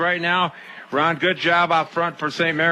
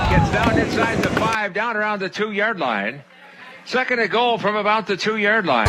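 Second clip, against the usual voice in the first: higher-pitched goal-line football call; live play-by-play; 5 semitones higher than usual. Real, not acted.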